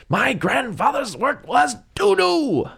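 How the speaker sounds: very high, slow wail; high yelling. Retold or imitated. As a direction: wail it like a tantrum. Gene Wilder exploding line.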